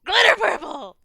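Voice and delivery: high, loud gleeful exclamation; real excitement. Real, not acted. Player cheers the choice of purple die, loud and excited. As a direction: cheer the choice at the top of your voice.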